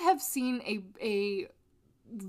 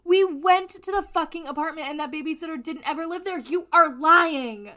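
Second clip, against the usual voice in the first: stern; 5 semitones higher, 5 dB louder than usual. Retold or imitated. Detectives confronting Casey in interview.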